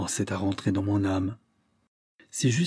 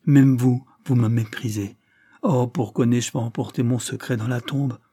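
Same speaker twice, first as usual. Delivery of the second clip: ton de reproche; 4 dB louder than usual. Acted. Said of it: "d'un ton de reproche".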